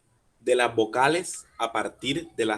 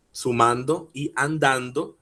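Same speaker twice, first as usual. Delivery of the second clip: "sumando y andando" marcando "man" y "dan"; fuerza en la A. Shown as a demonstration. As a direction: recalca la A tónica de "sumando" y "andando". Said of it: "tienen la fuerza en la A". ("sumando y andando" con la penúltima sílaba marcada)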